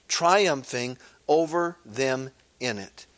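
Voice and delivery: measured, solemn Bible reading; scripture reading. Acted. Preacher reads Colossians to the church, solemn and measured. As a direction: read the verse aloud to the congregation.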